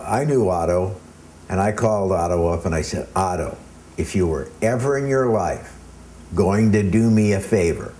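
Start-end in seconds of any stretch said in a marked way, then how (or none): 3.2-7.9 pleading. Retold or imitated. Pleading with Otto for a favor.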